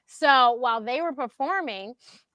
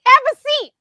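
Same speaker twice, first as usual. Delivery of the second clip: very high, loud retold command; imitating a flustered helper giving orders; urgent; 13 semitones higher, 11 dB louder than usual. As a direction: insist loudly, pitch shooting up. Retells John fussing over her.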